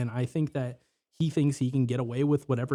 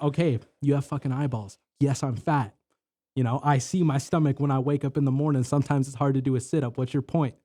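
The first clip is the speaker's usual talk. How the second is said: building from firm to shouting; angry confrontation; 2 semitones higher, 4 dB louder than usual. Retold or imitated. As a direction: tell him off, getting louder.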